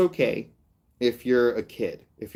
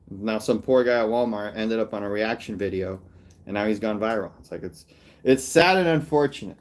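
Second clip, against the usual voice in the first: normal talking voice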